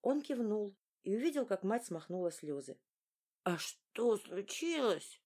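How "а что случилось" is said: 1 voice cracking. A narrator's reading. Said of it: "сорвался на фальцет".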